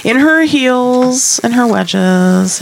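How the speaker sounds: slow, drawn-out documentary narration; narrator voice. Pretend. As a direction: narrate it like a nature film. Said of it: "narrate this in her best narrator voice".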